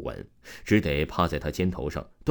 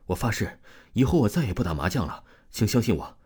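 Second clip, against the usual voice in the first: trembling voice; 3 semitones higher, faster than usual. Acted. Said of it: "颤抖着声音说".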